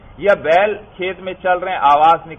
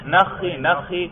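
quick call "نخی نخی" at normal pace; camel kneeling call; 3 semitones higher, much slower than usual. Shown as a demonstration. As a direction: say "نخی نخی" briskly, like a herder's command. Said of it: "اونٹ کو بٹھانا ہو تو کیا کہتے ہیں". (اونٹ کو بٹھانے کی تیز پکار)

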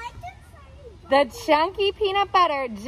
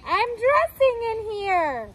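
ranch dressing voice; 8 semitones higher than usual. A narrator's reading. Food character voiced in story.

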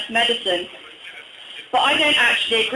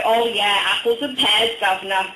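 mock Cockney accent; 2 semitones lower than usual. Comic mimicking people who tease a Cockney friend, mock Cockney accent. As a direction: imitate a bad Cockney impression. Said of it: "he's a Cockney".

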